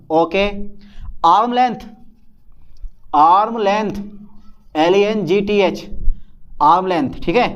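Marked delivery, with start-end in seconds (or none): 4.8-5.9 letter by letter, slow and deliberate; dictating the spelling of length letter by letter; spelled out slowly. Shown as a demonstration. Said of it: "spelling out the word".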